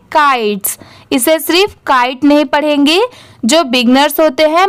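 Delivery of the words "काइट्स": काइट्स with a clear final s hiss; correct pronunciation. Shown as a demonstration. Teacher showing beginners how to say काइट्स. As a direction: say काइट्स, sounding the s at the end. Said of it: "इसे क्या pronounce करेंगे".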